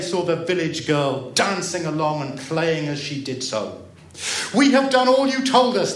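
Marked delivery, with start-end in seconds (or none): 4.5-5.9 put-on high, loud children's call; acted high childish calling. A narrator's reading. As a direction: shout it across as eager children. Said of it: "the children called".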